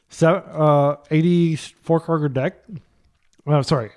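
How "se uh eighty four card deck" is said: chewing. Real, not acted. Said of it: "I don't mean to be chewing".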